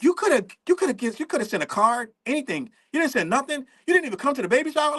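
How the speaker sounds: mock complaint, pitch climbing at the end; hammed-up grievance, rushed at the finish; aggrieved couple. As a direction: imitate an indignant guilt trip. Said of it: "him and Jen is like".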